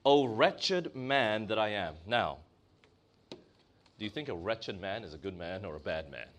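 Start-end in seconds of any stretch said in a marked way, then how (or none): none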